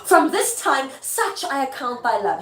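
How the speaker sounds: loud, high opening, easing off; emphatic stage line; theatrical reproach. Acted. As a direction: declaim it as a wounded challenge. Performs Lady Macbeth's reproach.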